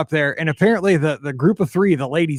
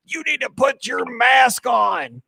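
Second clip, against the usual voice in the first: put-on scolding old lady; 7 semitones higher, slower than usual. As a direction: bark it at the row across the aisle. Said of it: "the older lady's like".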